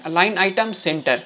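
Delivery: align item center stretched out word by word; very slow dictation. Shown as a demonstration. Teacher repeating the code very slowly for students. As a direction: say each word slowly for typing along. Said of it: "यहाँ पे लिखिए".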